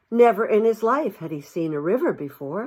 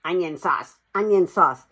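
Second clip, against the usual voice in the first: jeering. Acted. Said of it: "he remarked jeeringly".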